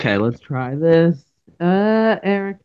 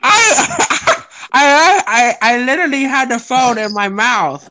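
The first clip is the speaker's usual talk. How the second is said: laughing; 6 semitones higher, slower than usual. Real, not acted. Laughing at his phone mishap.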